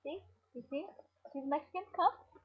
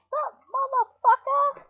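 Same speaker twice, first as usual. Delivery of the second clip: high loud tough-guy greeting; mock tough guy; 14 semitones higher, 11 dB louder, slower than usual. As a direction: greet the camera like a gun-toting gangster. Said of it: "And be like".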